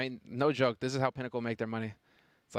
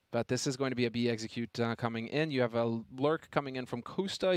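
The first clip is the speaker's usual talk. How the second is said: esports caster. Acted. Play-by-play commentary.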